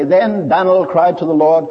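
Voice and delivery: Daniel said as one-syllable Dan'l; Moody's American Dan'l in the pulpit. Retold or imitated. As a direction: preach it with Dan'l in one beat. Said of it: "every time Moody would say".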